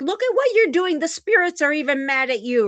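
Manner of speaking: high, loud triumphant taunt. Retold or imitated. Mocking her online critic as lights flicker, high gleeful taunt. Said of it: "And I'm like".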